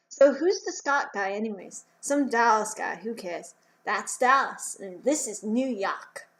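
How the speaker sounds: hammed-up New York local; bad New York accent. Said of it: "that was a terrible New York accent".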